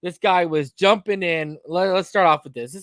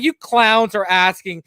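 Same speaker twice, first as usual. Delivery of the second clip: scornful rant; 4 semitones higher than usual. Retold or imitated. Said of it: "I'm like".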